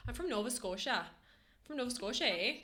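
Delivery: lightly imitated Nova Scotian lilt; Nova Scotia accent. Shown as a demonstration. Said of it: "the people from Nova Scotia typically have".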